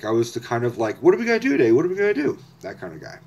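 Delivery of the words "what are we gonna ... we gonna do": put-on much higher, bouncy eager-kid voice; eager sidekick. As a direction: play the excitable little sidekick pestering his friend. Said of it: "I was his sidekick".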